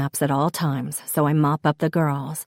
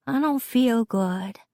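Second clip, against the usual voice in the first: put-on higher, queasy child's voice; Charlotte's little-girl voice; 6 semitones higher than usual. A narrator's reading. Sick daughter tells mom she feels bad, child's voice. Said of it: "comes Charlotte's voice".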